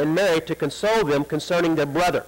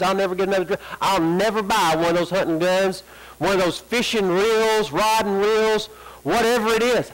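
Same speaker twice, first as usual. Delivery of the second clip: mock pleading prayer; 2 semitones higher than usual. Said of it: "That's our prayer".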